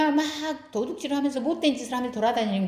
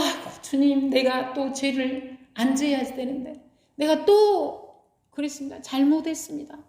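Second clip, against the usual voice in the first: mock repentant sinner; 5 semitones higher than usual. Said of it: "이렇게 오는 거하고".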